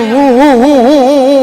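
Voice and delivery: imitated rhythmic hoo-hoo wail; mock wailing. Preacher showing listeners a forbidden lament, mock wailing. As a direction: mimic someone wailing in chanted hoots. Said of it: "nangis Dayak gitu".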